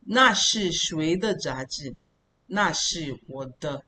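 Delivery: slow, measured Mandarin model sentences; careful language-teacher read-aloud; textbook dialogue reading. Shown as a demonstration. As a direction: read each line out deliberately for learners.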